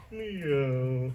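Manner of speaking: drawn-out, falling meow; cat imitation. Asked how a cat goes, a drawn-out cat meow. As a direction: give a long cat meow. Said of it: "how does a cat go".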